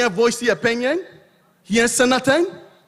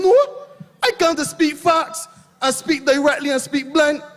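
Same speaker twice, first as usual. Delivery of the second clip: raised, higher declaration; blunt shout; 5 semitones higher than usual. Real, not acted.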